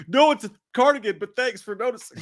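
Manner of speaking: high, prissy retort; character impression. Streamer quoting the movie reply, lightly high and smug. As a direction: play it smug and chipper. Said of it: "he's like".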